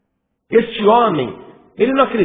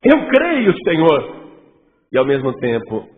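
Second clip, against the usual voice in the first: contradiction demo; 4 semitones lower than usual. Shown as a demonstration. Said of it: "Dá pra entender um negócio desse?".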